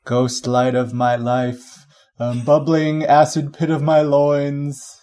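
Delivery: slow, grand reading voice; dramatic literary reading. Pretend. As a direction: recite it slowly like a novel. Parodies Lolita opening line.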